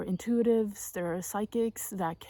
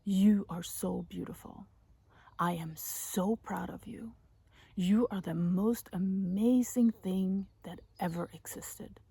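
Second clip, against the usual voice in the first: tender affirmations; slower than usual. Shown as a demonstration.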